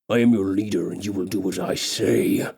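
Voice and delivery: low and firm, asserting rule; lightly voiced orc king. Orc king reminding the elf who rules, low and stern.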